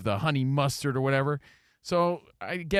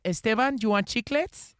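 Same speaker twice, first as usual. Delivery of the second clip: high, lilting offer; imitating his tita; 7 semitones higher than usual. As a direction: voice an aunt offering a treat in church. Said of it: "she'd be like".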